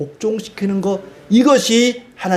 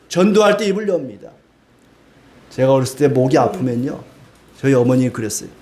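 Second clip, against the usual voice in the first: ordinary talk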